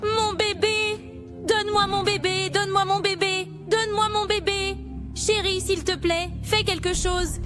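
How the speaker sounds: frantic pleading. Acted. Nightmare, demon takes her baby.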